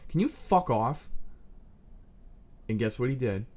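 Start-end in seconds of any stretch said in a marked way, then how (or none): 0.1-1.1 blunt retort. Retold or imitated. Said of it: "and I go".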